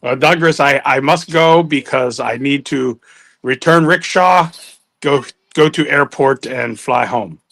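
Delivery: lightly put-on comic broken English; broken-English character voice. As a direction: play the pedalling rickshaw man.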